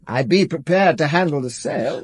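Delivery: chuckling through the offer; laughing. Acted. Art dealer jokes to the inspector about the sale, chuckling. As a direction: let a laugh carry the words.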